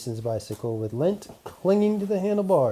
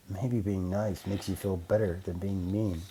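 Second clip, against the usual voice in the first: inner thought; 3 semitones lower, 5 dB quieter than usual. Acted. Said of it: "he thought".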